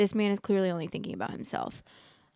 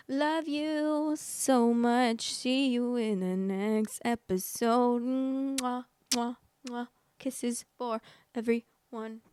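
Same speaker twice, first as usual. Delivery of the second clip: drawn-out, high singsong goodbye; very slow, playful farewell; gushing sign-off; 4 semitones higher, much slower than usual. Pretend. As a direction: stretch it out sweetly, blowing kisses. Exaggerated sign-off with blown kisses.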